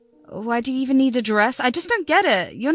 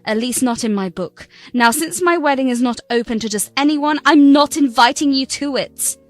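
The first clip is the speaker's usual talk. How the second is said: cold refusal. Acted. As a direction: shut the door in her face. Bride refusing stepmother the wedding.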